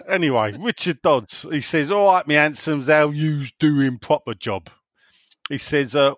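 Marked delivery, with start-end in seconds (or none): 1.9-4.7 put-on light Cornish accent. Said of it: "I won't do the accent".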